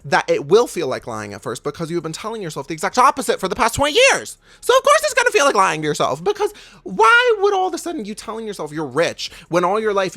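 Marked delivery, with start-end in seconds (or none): 2.1-10.1 heated. Real, not acted.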